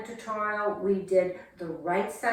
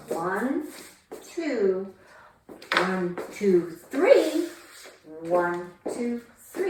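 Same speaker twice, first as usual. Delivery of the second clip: rhythmic counting to the beat; dance count; much slower than usual. Shown as a demonstration. Teacher counting out steps for dancers, rhythmic. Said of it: "counting dance steps".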